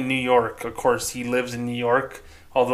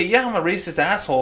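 mock blunt admission; 6 semitones higher, faster than usual. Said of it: "say it that way".

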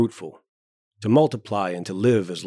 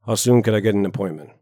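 speaking very carefully; 5 dB louder, faster than usual. Acted. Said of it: "speaking very carefully".

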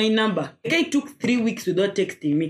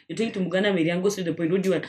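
low, blunt demand; curt and cold; 3 semitones lower, much faster than usual. Retold or imitated. Telling the caller to get to the point, flat and curt. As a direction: cut him off, no patience. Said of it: "I'm like".

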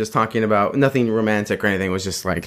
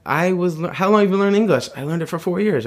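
higher, quick mock girl asking; a lightly raised girl's voice, a bit rushed; imitating the girl; 7 semitones higher than usual. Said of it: "She was like".

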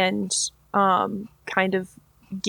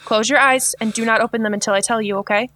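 gentle reassurance; faster than usual. Acted. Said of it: "knock very, very gently and say".

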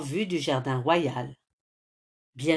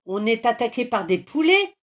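loud, higher troll roar; growling troll; 4 semitones higher, 6 dB louder than usual. A narrator's reading. Woken troll rumbling at intruders, loud. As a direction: boom it out like a startled monster. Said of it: "gronde le banshee".

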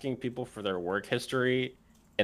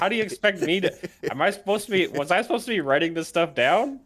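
exasperated; 7 semitones higher, faster than usual. Acted. Acted job seeker annoyed at interviewer.

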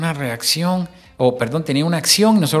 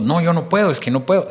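mock excuse; 4 semitones higher, 4 dB louder than usual. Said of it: "Entonces decimos".

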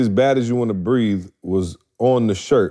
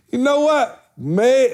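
mock pondering; 13 semitones higher, slower than usual. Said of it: "I was like".

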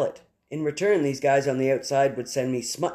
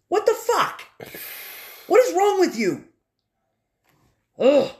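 shocked, high, loud outcry of disgust; disgusted outburst; 5 dB louder than usual. Real, not acted. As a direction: blurt it out in real revulsion. Disgusted reaction to killer's quote.

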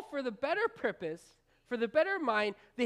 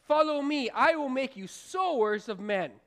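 a louder call to the farmers; Jesus calling out; 4 dB louder than usual. Retold or imitated. Jesus calling farmers off their tractors, loud and firm. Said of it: "And he says to them".

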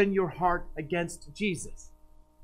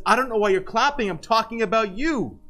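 raised, louder stern rebuke of an applauding crowd; preacher scolding youth for clapping, raised and louder; Paul Washer rebuke; 4 semitones higher, 3 dB louder than usual. Retold or imitated. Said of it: "Paul Washer stops and, and says".

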